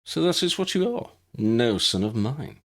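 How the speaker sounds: a hint of a stern father renouncing his son; cold disowning father. Lucius disowning Draco in front of Aurors, cold. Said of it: "regarded him coldly".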